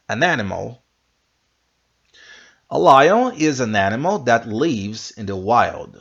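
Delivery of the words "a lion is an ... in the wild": louder, clear classroom read; model sentence. Shown as a demonstration. Teacher reading lion example aloud. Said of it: "One more time".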